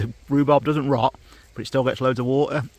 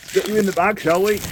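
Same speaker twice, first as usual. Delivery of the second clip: put-on playful baby talk; 8 semitones higher, 8 dB louder than usual. Talking to grapes into bag.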